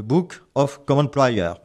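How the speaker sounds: English title in a French accent; real French accent on English words. Real, not acted. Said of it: "Excusez toujours mon accent anglais inimitable".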